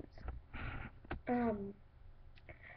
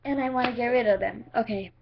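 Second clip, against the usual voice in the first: talking through the hiccups; speaking with hiccups catching; 2 semitones lower than usual. Real, not acted. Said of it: "I have the hiccups".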